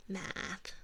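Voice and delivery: soft demo of math, almost meth; Canadian math. Shown as a demonstration. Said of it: "closer to meth than math".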